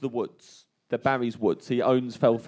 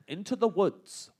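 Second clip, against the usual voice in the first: reciting poem; 6 semitones higher, 3 dB quieter than usual. Retold or imitated. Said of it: "The only line I remember".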